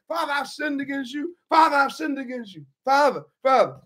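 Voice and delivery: trying out a humble confession to his father; practising the words quietly, searching for them; rehearsed plea. Acted. Prodigal rehearses his apology to his father, humble plea. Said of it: "Listen, I'm gonna say".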